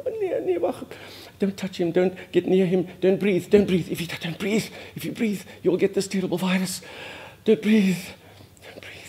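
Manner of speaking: high, frantic inner voice of alarm; rising mock panic, then fading out; retold panic.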